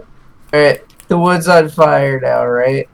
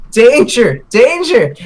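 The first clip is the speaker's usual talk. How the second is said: high, slow urgent shout; tiny panicked character; 12 semitones higher, much slower than usual. Acted. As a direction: plead the danger in a squeaky voice. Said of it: "And he's like".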